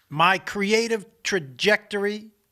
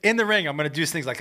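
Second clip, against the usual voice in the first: ordinary talk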